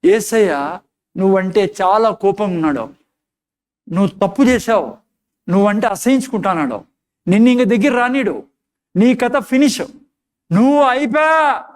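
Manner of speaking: Satan's accusing voice. Retold or imitated. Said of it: "వాడు ఏం చెప్తాడు తెలుసా".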